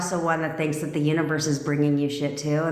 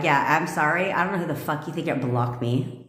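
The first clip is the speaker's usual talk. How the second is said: haughty attitude; 4 semitones lower than usual. Shown as a demonstration. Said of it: "Be like".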